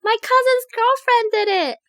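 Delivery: very high, put-on child's fib; little kid voice. Little chocolate thief blaming cousin's girlfriend, high kid voice. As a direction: pipe up high like a small child shifting blame. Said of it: "little you trying to steal chocolate bars and saying".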